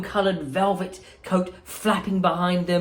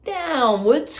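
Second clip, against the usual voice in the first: higher, louder call back to the group; 9 semitones higher, 3 dB louder than usual. Acted. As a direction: shout over your shoulder. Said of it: "called out Wonka".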